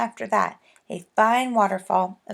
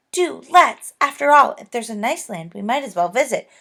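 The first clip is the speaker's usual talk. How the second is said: eager pleading; 4 semitones higher, 8 dB louder than usual. Acted. Bessie begs to go.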